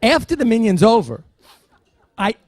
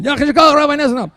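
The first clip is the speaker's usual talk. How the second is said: put-on high, loud old accented voice; lightly imitated elderly European professor; Elie Wiesel imitation; 9 semitones higher, 5 dB louder than usual. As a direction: mimic an elderly professor's warm greeting. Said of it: "I can only do one imitation".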